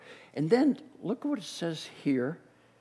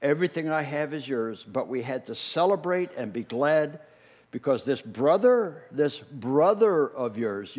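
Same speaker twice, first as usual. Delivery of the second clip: gentle father; 2 semitones lower than usual. Acted. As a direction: coax him tenderly. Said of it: "the father said".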